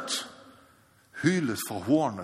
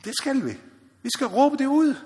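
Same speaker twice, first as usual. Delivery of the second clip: raised call; 11 semitones higher than usual. Acted. Preacher repeats the call.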